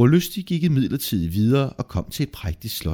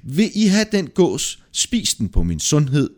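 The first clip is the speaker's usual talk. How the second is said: higher-pitched call to others; 6 semitones higher, 3 dB louder, slower than usual. A narrator's reading. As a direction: call over to them with an offer. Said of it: "kaldte på dem".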